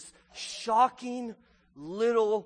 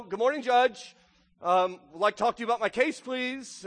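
put-on higher, pleading old widow, a bit louder; little old widow; 4 semitones higher, 3 dB louder than usual. Widow greeting the judge at the curb, higher pleading voice. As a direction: sweetly nag the judge as a persistent old widow. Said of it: "His little old widow".

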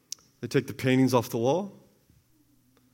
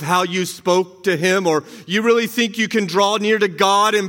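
accusing voice; 3 semitones higher than usual. Acted. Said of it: "the voice says".

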